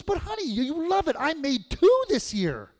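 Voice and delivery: very high, sweet grandma coaxing; grandma's voice. Retold or imitated. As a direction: coax him like a doting grandmother. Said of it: "She goes".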